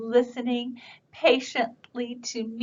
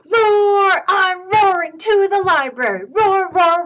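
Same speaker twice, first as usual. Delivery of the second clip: high, excited dinosaur voice; playful storybook dinosaur shout; roaring dinosaur; 9 semitones higher, 7 dB louder than usual. Acted. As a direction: charge in roaring.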